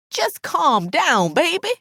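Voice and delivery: pleading, drawn-out appeal to calm; soothing plea. A narrator's reading. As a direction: slowly coax her down. Narrator pleads with worked-up Alice.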